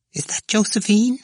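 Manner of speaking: put-on high, feeble whining old woman. A narrator's reading. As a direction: whine it like a frail old woman. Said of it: "A whining voice".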